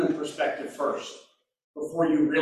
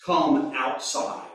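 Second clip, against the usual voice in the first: gentle invitation; 3 semitones lower, slower than usual. Shown as a demonstration. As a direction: coax "Come outside" gently, slowly. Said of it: "I want you to come out".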